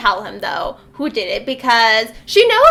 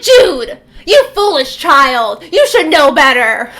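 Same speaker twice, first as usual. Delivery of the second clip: mock stern stepmother; 7 dB louder than usual. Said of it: "evil, wicked stepmother".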